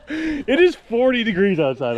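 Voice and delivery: "It is forty degrees outside" slow, each word pressed; emphatic announcement. Real, not acted. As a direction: announce it slowly and firmly. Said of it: "I want everyone to know".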